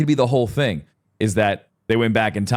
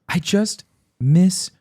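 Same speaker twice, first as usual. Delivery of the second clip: put-on sad little boy; 10 semitones higher, slower than usual. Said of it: "Buddy, what's wrong?".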